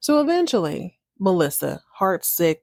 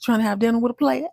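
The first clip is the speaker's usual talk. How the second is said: flirty player; 3 semitones higher, faster than usual. Retold or imitated. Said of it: "He's like".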